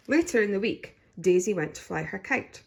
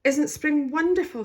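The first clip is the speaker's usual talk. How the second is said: smiling; 9 semitones higher, 6 dB louder than usual. A narrator's reading. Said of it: "smiled Mummy Rabbit".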